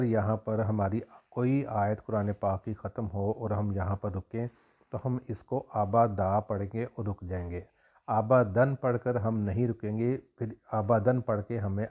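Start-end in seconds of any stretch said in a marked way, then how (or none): 5.7-6.4 آبا دا ending open on a long aa when stopping; pausal form. Shown as a demonstration. Teacher showing how to stop at a verse, aabaa daa. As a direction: drop the tanween, say آبا دا at the verse end. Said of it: "آبا دا جب رکنا ہوگا".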